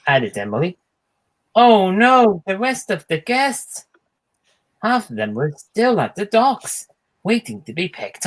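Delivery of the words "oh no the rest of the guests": dismayed oh no. Acted. Emily realises guests left behind.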